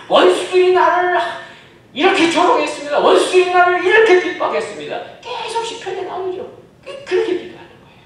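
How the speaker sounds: high, loud voicing of David's plea; impassioned preaching. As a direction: cry out the complaint to God. Acting psalm-style complaint prayer. (다윗의 호소를 외치듯 설교)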